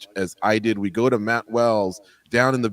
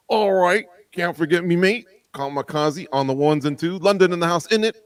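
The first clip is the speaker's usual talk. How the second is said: hammed-up Cockney-ish British accent, pitched higher; horrible British accent; 5 semitones higher than usual. Host greeting the producer in a bad British accent. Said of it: "my horrible British accent".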